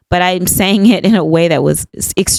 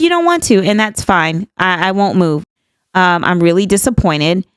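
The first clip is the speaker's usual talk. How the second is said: snippy. Retold or imitated. To the waitress who won't let her move, mildly snippy retort. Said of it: "getting kind of snippy with her".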